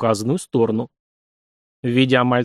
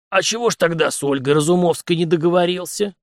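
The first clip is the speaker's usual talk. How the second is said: teasing jab; 6 semitones higher than usual. A narrator's reading. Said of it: "тут же поддел его старик".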